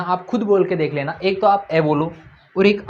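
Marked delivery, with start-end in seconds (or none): 1.7-1.8 clipped short vowel ए. Shown as a demonstration. Teacher shows a short vowel to the class, quick and short. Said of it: "अब मैं बोल के देख लेना".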